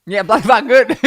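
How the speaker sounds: loud, high Aussie echo; hammed-up Australian boast; mock Australian accent. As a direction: parrot it loudly in an Australian accent. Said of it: "do an Australian accent".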